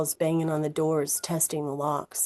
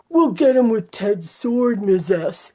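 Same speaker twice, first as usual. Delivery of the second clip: a hint of an excited boy, louder and higher; lightly voiced eager student; eager kid; 4 semitones higher, 7 dB louder than usual. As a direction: voice the boy gung-ho.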